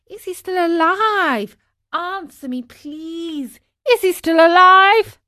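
high-pitched, emotional outburst; anxious boy, building to a loud cry; urgent pleading. A narrator's reading. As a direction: beg desperately for news of your father. Pinocchio begs for news of father.

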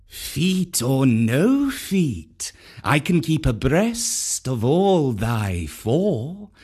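slow, short snake reply; curt Kaa. Acted. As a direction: cut the panther off curtly. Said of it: "said Kaa shortly".

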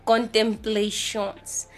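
Contemplations slowed into a French-style kɔntɛ̃mpleɪʃɔns; Contemplations, French retry. Shown as a demonstration. Retrying the French title, slowly sounding it out. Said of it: "I don't know how to do this thing".

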